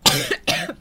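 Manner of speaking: cough. Real, not acted. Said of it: "That's not me coughing".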